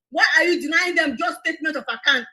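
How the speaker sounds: shouting the accusation; outraged demand for accounts; angry shout. Real, not acted.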